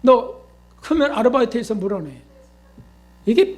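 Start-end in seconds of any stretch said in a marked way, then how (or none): 0.0-2.1 mock scolding. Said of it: "막 야단치고 그냥".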